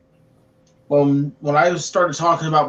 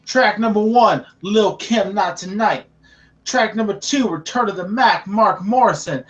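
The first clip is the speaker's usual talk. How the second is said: announcer voice; 3 semitones higher than usual. Acted. Announcing the CD tracklist.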